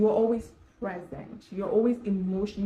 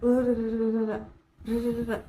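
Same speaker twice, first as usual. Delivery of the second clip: mock outburst yelling; 3 semitones higher, 4 dB louder, faster than usual. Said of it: "it was like yelling, and I was speaking very fast".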